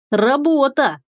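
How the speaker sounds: creature voice. Acted. Creature announcing work.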